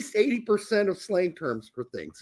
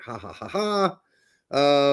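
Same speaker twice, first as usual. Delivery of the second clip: mock laugh; 3 semitones lower, slower than usual. Mock laugh at a naughty word.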